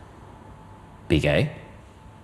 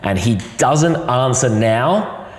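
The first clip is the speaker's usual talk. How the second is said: 1 slow solemn vow; 3 semitones higher, much slower than usual. Retold or imitated. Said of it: "And I go".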